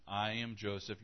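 soft, steady, gentle reveal; calm revelation. Retold or imitated. Joseph gently revealing himself to his brothers, softly. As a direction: say it quietly, simply, as a brother. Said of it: "Then he said".

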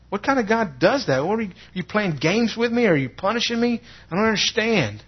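high, anguished protest to God; reenacted angry bewilderment, high and insistent; mad and confused. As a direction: demand answers from God, voice pushed high. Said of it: "mad, confused. I said".

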